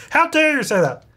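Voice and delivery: high-pitched put-on indignant lady; lady's voice. Pregnant lady questioning the nectar guy, high mock-offended voice. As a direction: play a taken-aback lady, pitched well up.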